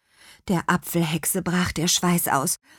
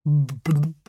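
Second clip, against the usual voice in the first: bubbly fish voice; blub, then modestly wave off the thanks; embarrassed old carp, burbling; bashful carp; 3 semitones lower, much slower than usual. A narrator's reading. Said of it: "wehrte Bommel verlegen ab".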